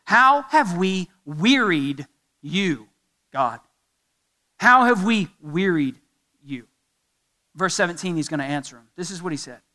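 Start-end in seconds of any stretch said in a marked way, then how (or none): 0.0-3.6 very slow, pointed mock innocence; acted sarcastic challenge, deliberately paced; sarcastic question. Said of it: "The fifth sarcastic question". 4.6-6.7 pointed mock innocence, leaning on "How"; acted sarcastic challenge to God; sarcastic question. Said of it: "The fifth sarcastic question".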